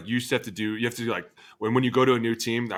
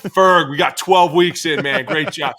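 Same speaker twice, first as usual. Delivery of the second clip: mock praise; 6 semitones higher, 8 dB louder than usual. Mock praise to trainer Fergie.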